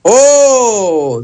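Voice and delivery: long, drawn-out "oh" of amazement; demonstrative gasp-like exclamation of surprise; astonished. Shown as a demonstration. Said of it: "se sorprende".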